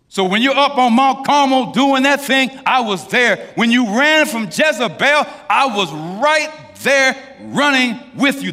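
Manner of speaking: rally the room, voice ringing out; full-force preaching. Acted. Preacher telling the congregation God runs with them, ringing loud.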